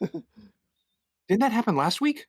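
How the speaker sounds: high squeaky glitched voice; sped-up chipmunk audio glitch. Real, not acted. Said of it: "chipmunk voice again".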